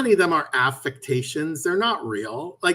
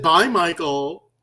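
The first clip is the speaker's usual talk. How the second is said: slow drawn-out mock reply; slower than usual. Friend mocking the voice back, slow and drawn out. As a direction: stretch out a slow sing-song goodbye. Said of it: "I said".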